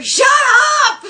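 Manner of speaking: loud yell cutting off the song; hammed-up shout; angry cut-in. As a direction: snap it over the singer. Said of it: "Skinner tells him to shut up".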